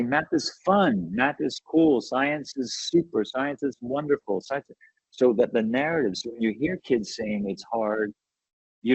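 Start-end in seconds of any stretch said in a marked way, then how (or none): 0.0-4.8 slower, higher, selling the fun of it; lightly upbeat pep for the class; upbeat enthusiasm. Shown as a demonstration. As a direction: cheer it like a keen teacher.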